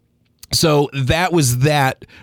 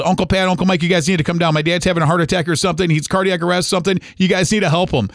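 urgent higher-pitched retelling, volume kept down; retold yell; 5 semitones higher, faster than usual. Nephew calling uncles to help his dad, mild retold yell. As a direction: mildly re-enact yelling for help, pitched up. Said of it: "and I just yelled".

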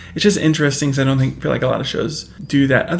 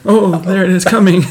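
high, loud laughing line; 5 semitones higher, 6 dB louder than usual. Retold or imitated. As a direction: giggle through the words. Mimics Corey after the smack.

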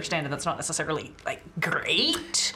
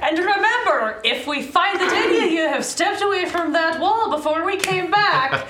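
stern guard voice; 9 semitones higher, 4 dB louder than usual. Acted. Guard NPC warns the prisoners.

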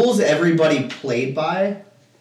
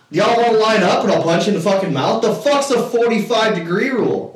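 louder, higher-pitched mock threat; retold pissed-off threat; 7 semitones higher, 4 dB louder than usual. Player threatens the pool regulars, acted-out anger. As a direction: challenge them all, riled up. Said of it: "kinda starting to get pissed".

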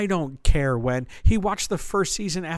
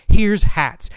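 exasperated; 6 semitones higher, 10 dB louder than usual. Acted. Exasperated rant about hat scene.

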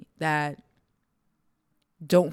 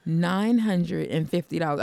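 slow stunned repeat; much slower than usual. Real, not acted. Repeating shocking price slowly.

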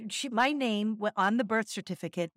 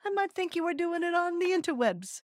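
jokey tone; 9 semitones higher than usual. Acted. Playful jokey aside.

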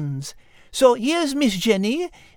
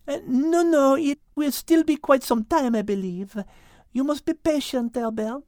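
gentle. Acted. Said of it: "with a smile".

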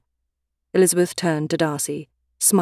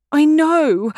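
high, loud despairing wail; 11 semitones higher, 7 dB louder than usual. Acted. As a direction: cry it out in dismay. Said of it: "Elizabeth Bennet wailed".

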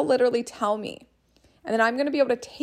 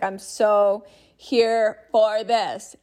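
enthusiastic; 4 dB louder, much slower than usual. Pretend. Voicing her excited reply.

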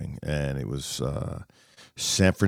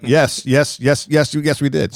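repeated yeses, higher and louder; gleeful yes; 8 semitones higher, 4 dB louder, slower than usual. Retold or imitated. The speaker telling Tiger's PR man they won, gleeful and loud. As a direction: gloat happily, yes after yes. The speaker confirming their win.

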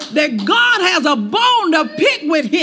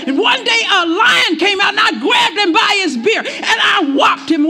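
David's rousing boast; 4 semitones higher than usual. Retold or imitated. David boasting of beating beasts.

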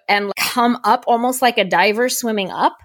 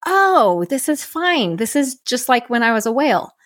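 high surprised "Oh" easing down; light wonder at a discovery; retold sudden realization; 3 semitones higher than usual. Sudden calm realization about whales.

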